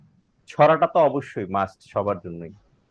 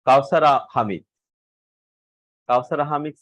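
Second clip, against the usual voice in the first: calling out; 2 semitones higher, 5 dB louder than usual. Real, not acted. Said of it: "calling student name".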